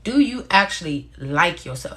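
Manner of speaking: "like" leaned on and stretched; stress on "like". Real, not acted. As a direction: set "like" apart from the other words. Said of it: "I ain't say love".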